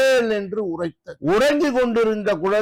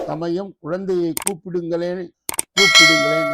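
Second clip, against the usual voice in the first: calling out. Acted. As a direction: call out to bring the child. Devotee calls for the child.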